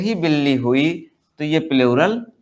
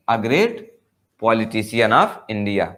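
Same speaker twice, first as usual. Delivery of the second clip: each word spelled out very slowly; slow dictation; 5 semitones lower, much slower than usual. Shown as a demonstration. Teacher reads the example to the class, very slow. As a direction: read it out slowly like dictation for students.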